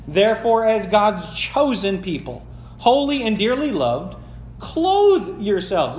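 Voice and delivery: ringing preacher's reading voice; preaching. Acted. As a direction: proclaim the verses to the congregation. Preacher reads scripture.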